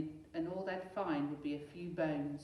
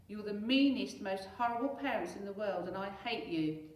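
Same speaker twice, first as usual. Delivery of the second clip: loud outburst fading; a mild mock shriek; Henry shrieking; 3 semitones higher, 4 dB louder than usual. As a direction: throw a tantrum at the parents. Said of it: "shrieked horrid Henry".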